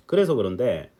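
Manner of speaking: a slight, accidental North Korean lilt; North Korean accent. Real, not acted. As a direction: slip briefly into North Korean intonation. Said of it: "갑자기 북한 말이 나오죠". (살짝 북한 말 억양이 섞이게)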